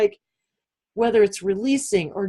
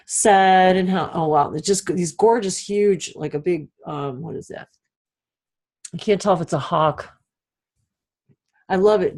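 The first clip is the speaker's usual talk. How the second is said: ordinary talk, nothing marked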